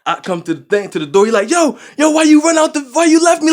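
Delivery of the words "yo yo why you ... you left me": high, loud retold accusation; raised, half-acted complaint; mock accusing friend. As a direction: play the friend demanding answers. Retold friend confronting him.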